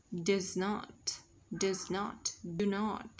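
"does not" with the final t released; careful teacher's model of "does not"; ending sound released. Shown as a demonstration. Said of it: "Bật ending sound nhá".

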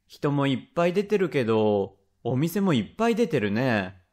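a hint of a young boy chatting to dad; child's casual remark, lightly acted; lightly voiced child. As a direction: lightly play a little boy angling for something. Child talking to his father.

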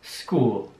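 drawn-out "School"; "School" slowly for learners. Shown as a demonstration. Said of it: "Ich sag das Wort noch einmal langsam".

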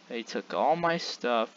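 soft, deflated; quiet. Real, not acted. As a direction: say it quietly, crushed. Repeats it quietly.

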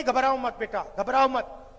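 put-on a father hiding tears, calming his child; father's soothing words. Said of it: "मुस्कुराने की कोशिश कर रहा है".

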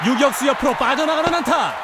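excited hit call. Real, not acted.

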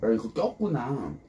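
talking through a tissue; muffled while eating; mouth full, chewing. Real, not acted. Seen 1: Just slurped soup; talks chewing behind a tissue held to her mouth.

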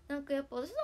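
ordinary talk, nothing marked

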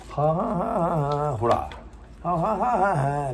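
trying to find a voice that won't come; voice check. Real, not acted. Testing a lost voice before singing. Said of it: "出えへんやん。".

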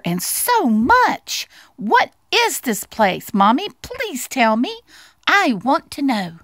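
high, eager mouse voice; joyful little mouse. Acted. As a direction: pour out each discovery with childlike delight. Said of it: "called Little Mouse joyfully".

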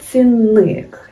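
цінник with a loud first syllable "ці"; stressed example word. Shown as a demonstration. Teacher to exam students, loud stress on цінник. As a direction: hit the "ці" in цінник. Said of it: "Який склад наголошуємо".

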